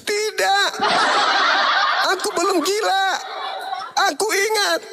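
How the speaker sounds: high, laughing mother voice, pleading and reproachful; a mother reciting every sacrifice; aggrieved mother. Acted. Mother reminding her son of Egypt and Herod, high and aggrieved.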